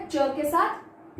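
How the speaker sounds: च के साथ said very slowly; slow drawn out. Shown as a demonstration. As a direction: linger on each word. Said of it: "इसकी long sound". (धीरे-धीरे)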